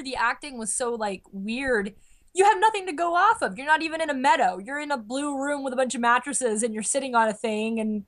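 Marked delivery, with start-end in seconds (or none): 2.3-5.9 higher, insistent complaint; exasperated rant. Acted. Fan ranting about empty sets, exasperated. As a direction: press each point in disbelief.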